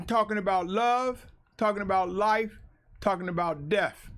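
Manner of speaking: "love", "life" and "death" each closing its own phrase; separated topics. Shown as a demonstration. Preacher clarifying his meaning, each topic set apart. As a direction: list "love", "life", "death" one by one with pauses. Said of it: "But I'm presenting this as".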